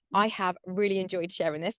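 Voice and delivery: slightly breathless talking; out of breath. Real, not acted. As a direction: speak a little winded. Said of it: "God, I'm out of breath".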